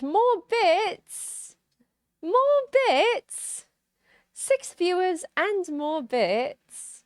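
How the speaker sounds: high-pitched, drawn-out delight; thrilled exclamation. Real, not acted. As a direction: cry it out, elated. Excited at incoming viewer donations.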